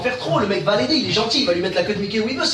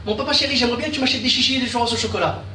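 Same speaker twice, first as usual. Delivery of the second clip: lightly voiced pleading child, a bit higher; gamin qui quémande; 3 semitones higher than usual. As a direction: wheedle Dad like a careful little kid. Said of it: "Il te demande en allitération". (voix d'enfant qui quémande)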